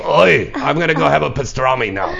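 talking around a cigar; old New York Jew chewing a cigar; cigar in mouth. Retold or imitated. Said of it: "with the cigar in my mouth".

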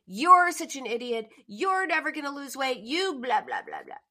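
harsh vicious. Retold or imitated. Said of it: "she was harsh and, and vicious".

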